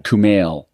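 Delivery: Kumail said as koo-MAYL with falling tune; correcting to Kumail. Shown as a demonstration. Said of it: "Not Kumar".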